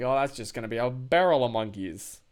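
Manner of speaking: dry sarcastic delivery. Shown as a demonstration. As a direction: say it with heavy sarcasm. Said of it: "used sarcastically".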